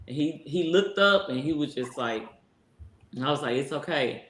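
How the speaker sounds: gently calm a scared dog; soothing the dog. Retold or imitated. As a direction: owner soothing her dog quietly. Soothing her dying dog.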